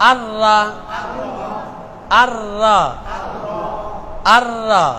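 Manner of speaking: আর রা with nun dropped into a doubled r. Shown as a demonstration. Teacher drills the tashdid rule, doubled r in আর রা. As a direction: hold the r across আর রা, no n, no hum. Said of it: "তাসদিদ দিয়ে যখন পড়বেন".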